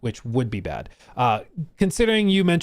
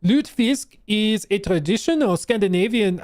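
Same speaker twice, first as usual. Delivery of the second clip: hyped sale-announcer read, a bit higher; big summer blowout ad voice; 6 semitones higher than usual. Pretend. Streamer reads chat's dish like a summer blowout ad. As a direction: sell the fish like a mattress sale ad. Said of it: "I say it with the big summer blowout".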